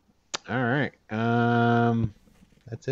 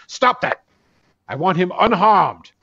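Baradin command; 5 semitones higher, 5 dB louder than usual. Acted. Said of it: "Baradin turns and goes".

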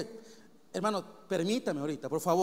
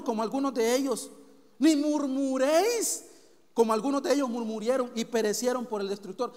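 scripture reading; 2 semitones higher, 4 dB louder than usual. Real, not acted. Reads scripture aloud.

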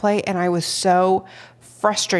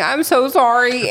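retold crying apology; 5 semitones higher, 5 dB louder than usual. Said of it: "I'm standing in there crying".

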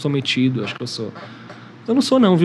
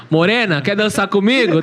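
slow, higher cheesy pickup line; Cidade de Deus guy; 4 semitones higher, slower than usual. Retold or imitated. Joking about his own flirting, slow cheesy pickup line. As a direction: drag out the flirty line like a movie thug. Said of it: "Eu chego que nem o cara da Cidade de Deus".

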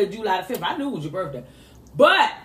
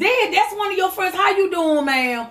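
higher, quicker and breezy; breezy daughter voice; 5 semitones higher than usual. Retold or imitated. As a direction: toss it off like a teen who suspects nothing. Mother replays daughter's breezy greeting.

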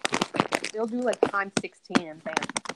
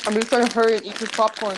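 chewing while talking; 6 dB louder than usual. Real, not acted. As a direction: mouth full of popcorn. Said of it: "So I'm sorry for the chewing".

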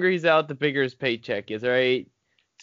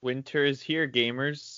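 hushed dramatic intro; 6 dB quieter, slower than usual. Pretend. Podcast intro catchphrase.

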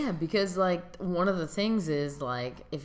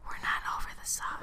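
whisper. Acted. Stubborn whispered insistence.

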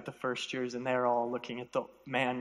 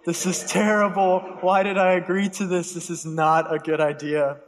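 loud, raised-pitch panicked self-talk; nervous inner panic; 3 semitones higher, 7 dB louder than usual. Retold or imitated. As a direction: act out inner dread, punching the words. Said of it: "I was very nervous on the inside".

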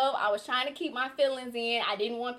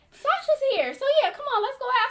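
high, louder breezy mom voice, brushing it off; imitating mom; 13 semitones higher, 5 dB louder than usual. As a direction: play mom as if it's no big deal. Mom casually urges her out.

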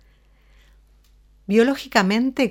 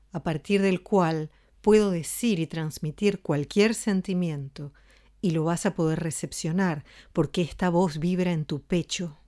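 affectionate voice; 2 semitones lower than usual. Shown as a demonstration. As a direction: speak warmly from the chest. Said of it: "una manera mucho más afectuosa". (voz afectuosa, desde el pecho)

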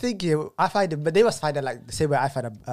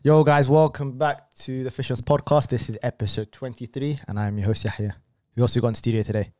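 podcast intro; 4 dB louder than usual. Real, not acted. Host introducing the episode, announcer style.

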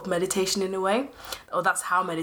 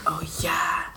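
whispered realization. Retold or imitated. Remembering deep thing.

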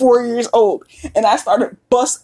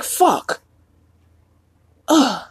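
mock dismay; 4 semitones higher than usual. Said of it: "it's like".

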